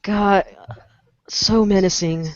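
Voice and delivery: dry sarcastic whisper. Real, not acted. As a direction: whisper it with mock awe. Sarcastic remark on the movie.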